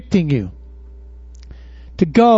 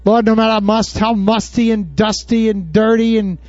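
closing prayer. Acted. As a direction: pray it over the congregation.

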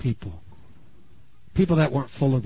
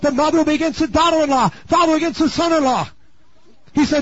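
ordinary talk, nothing marked

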